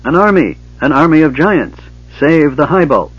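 high, loud alarmed cries; panicked shouting. A narrator's reading. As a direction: raise the alarm at full voice. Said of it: "the shouts of the gully dwarf".

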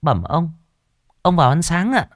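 put-on high, polite young maid; servant girl's voice. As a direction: lift the voice up like a deferential young servant girl. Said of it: "mới nói". (giọng cô hầu gái trẻ, cao và lễ phép)

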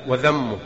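وذمه with a voiced "th" as in "this"; dhal in وذمه. Shown as a demonstration. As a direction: say وذمه with dhal, not dal. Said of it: "بالذال".

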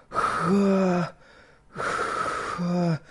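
short breathy gasping "ха"; convulsive wheezing gasps. A narrator's reading. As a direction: gasp for air in panic. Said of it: "судорожно сипела девочка". (судорожное сипение)

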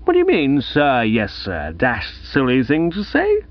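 Gussie, irritable prize-giver. Acted. Gussie rebukes G G Simmons for his answer, irritably. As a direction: pick crossly at the boy's answer.

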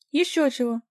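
high, loud scornful cry; scornful shout. A narrator's reading. Vika shouts her refusal at the director, high and loud. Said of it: "закричала Вика".

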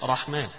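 الرحمن with the lam merged into a doubled ra; assimilated lam. Shown as a demonstration. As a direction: say الرحمن as arrahman, lam swallowed into ra. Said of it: "فأدغمت اللام في الراء". (الرحمن بإدغام اللام في الراء)

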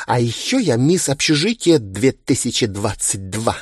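proud, bubbly high boast; boastful. Acted. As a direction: brag about the title with glee. Хвастается титулом. (хвастливо и восторженно)

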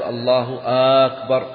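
أكبر opened with a long "aa", as "aakbar"; stretched second hamza. Shown as a demonstration. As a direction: draw out the first vowel of أكبر after الله. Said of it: "لا يمد الهمزة في الجزء الثاني". (مدّ الهمزة في أول «أكبر»)

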